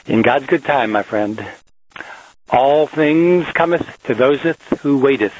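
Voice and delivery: lightly voiced mock biblical quote, slowed; hint of a preacher intoning scripture. Locksmith quoting fake Leviticus to his listeners, mock solemn. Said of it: "as they say in, uh, Leviticus".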